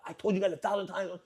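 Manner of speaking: hammed-up exasperated rant; acting meshuggah. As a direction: put on a slightly crazy boss fit for show. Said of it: "act a little bit meshuggah".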